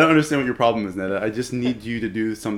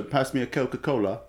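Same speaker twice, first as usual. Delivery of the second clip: put-on Australian accent; 4 dB quieter than usual. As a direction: wobbly attempt at an Australian accent. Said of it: "Can you do the Australian accent?".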